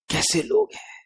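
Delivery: high, shocked cry of disbelief; outraged disbelief. Real, not acted. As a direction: ask it in appalled amazement. Outraged rhetorical question.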